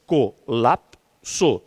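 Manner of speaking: slow syllable-count demo of "Colapso". Shown as a demonstration. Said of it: "tem três sílabas".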